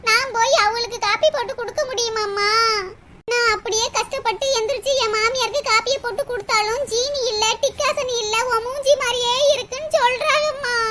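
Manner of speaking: low weepy whine ending in sobs; hammed-up tearful grumbling; tearful complaint. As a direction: moan about chores, then break down. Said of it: "அழுகுறத நிறுத்திட்டு".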